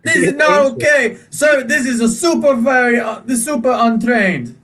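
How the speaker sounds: indignant scolding. Acted. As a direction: tell the owner off, appalled. Shopkeeper scolds horse owner.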